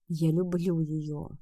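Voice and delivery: breathed out, drained and slow; exhausted exhale. Acted. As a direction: sigh it out with no strength left. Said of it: "почти обессиленно выдыхает он".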